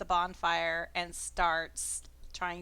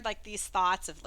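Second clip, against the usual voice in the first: whisper; 4 dB louder than usual. Acted. Telepathic thoughts narrated.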